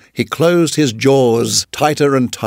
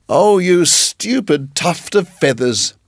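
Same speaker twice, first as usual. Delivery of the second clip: higher, slow angry scolding; 5 semitones higher, slower than usual. Acted. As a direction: scold the silly bird sharply. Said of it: "said Rikki Tikki angrily".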